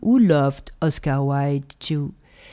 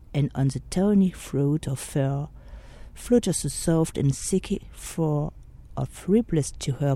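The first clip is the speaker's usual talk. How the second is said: poem recitation; 4 dB quieter than usual. Acted. Podcaster recites Wilde's The Sphinx to listeners, hushed and dreamy. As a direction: let each line linger like an incantation.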